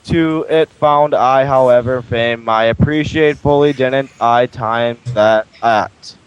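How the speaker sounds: flat robotic reading voice. Acted. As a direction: read it like a robot, monotone. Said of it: "I literally sounded like a robot reading that".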